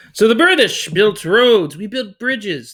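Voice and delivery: put-on British accent. Teacher voicing the British Empire bragging, mild British accent. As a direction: boast like a colonial Brit in a British accent. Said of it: "let me get into British character".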